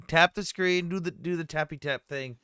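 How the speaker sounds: hammed-up tap-the-screen pitch; mocking sultry voice. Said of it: "not in that voice".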